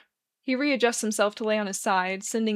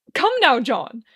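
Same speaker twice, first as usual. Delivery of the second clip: eager call; 4 semitones higher, 8 dB louder, slower than usual. A narrator's reading. Arthur urging John eagerly.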